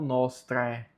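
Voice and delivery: "nostre" ending on a plain open E; silent A. Shown as a demonstration. Teacher explaining the mute A, E alone. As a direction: say NOS-treh for "nostre". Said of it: "o A fica mudo".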